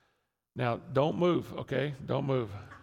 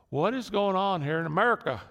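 higher, louder mock cry of frustration; exasperated shopper; 6 semitones higher, 5 dB louder than usual. Pastor imitating a frustrated shopper, exasperated. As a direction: throw up your hands at the empty shelves.

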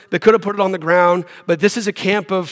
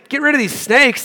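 mock complaint; 7 semitones higher than usual. Voicing what Israelites did not say.

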